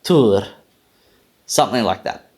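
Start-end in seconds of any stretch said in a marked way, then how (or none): 0.0-0.5 tur ending in a quick alveolar tap. Shown as a demonstration. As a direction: say tur with a tapped r. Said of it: "attempt the first syllable now".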